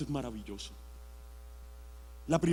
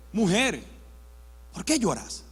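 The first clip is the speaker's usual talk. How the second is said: lower, softer question to a weeping woman; gentle angel; 4 semitones lower, 5 dB quieter than usual. Acted. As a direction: ask it gently, with space between phrases. Ángeles consuelan a María. (pregunta suave y compasiva)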